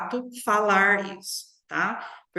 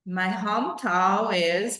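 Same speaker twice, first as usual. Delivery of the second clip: slow recall demo; slower than usual. Shown as a demonstration. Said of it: "eu tô falando sem olhar".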